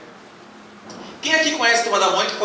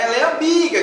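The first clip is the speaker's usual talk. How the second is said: a mild mock shout, a bit higher; retold shout; 5 semitones higher than usual.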